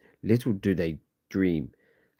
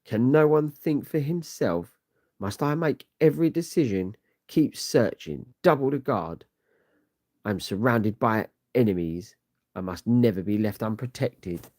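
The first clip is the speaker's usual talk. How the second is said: much higher, shrill-edged frantic commands; panicked ruler; 4 semitones higher than usual. Acted. Baltag barking at his guards in high, frantic fear. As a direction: snap at the guards in rising fear.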